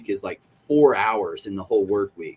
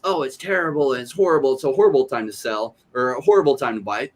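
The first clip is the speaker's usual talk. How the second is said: higher, lightly voiced doom-saying barber; lightly hammed-up complaint from the barber's chair; mock gloomy barber; 4 semitones higher than usual. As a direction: imitate a moaning hairdresser. Barber's gloomy answer quoted.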